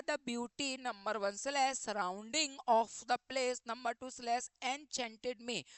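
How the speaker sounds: each word read out slowly and evenly; slow question reading. Acted. Teacher reads the exam sentence slowly to students. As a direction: dictate the sentence to the class word by word.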